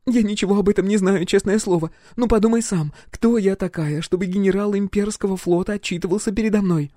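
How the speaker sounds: put-on high young woman's frightened plea; high pleading girl. Roxy pleads with the captain, high frightened girl. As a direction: plead your innocence, high.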